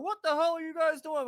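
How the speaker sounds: high, loud imitation of an irate guard; retold angry challenge. Security guard confronts the trespassers, angry imitation. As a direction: demand answers as the guard.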